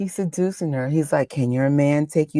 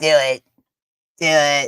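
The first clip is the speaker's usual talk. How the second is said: booming villainous ruler voice; 5 dB louder than usual. Egging on a character on screen, switching into a Palpatine voice. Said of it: "Palpatine voice".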